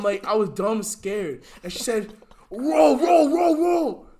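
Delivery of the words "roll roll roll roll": high, stretched, strained pleading; mimicking the girl's strange high plea. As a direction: imitate her eerie high begging. Imitating girl mid-seizure.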